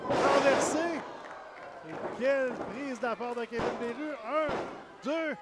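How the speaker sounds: live wrestling play-by-play; wrestling commentator. Real, not acted. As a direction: call it like a ringside announcer.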